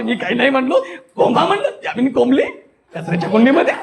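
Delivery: amused telling, laughing now and then; moderate comic laughter. Shown as a demonstration. Teacher demonstrating medium comic rasa, chuckling through neighbours' gossip. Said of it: "हे मध्यम".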